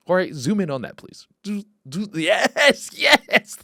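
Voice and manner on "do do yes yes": higher squeals of delight; excited cheer. Real, not acted. To Jorge zooming in on the clip, excited cheering.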